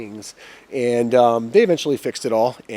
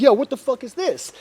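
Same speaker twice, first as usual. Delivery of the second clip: higher-pitched mock outrage; retold indignant disbelief; 10 semitones higher than usual. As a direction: act out an indignant reaction.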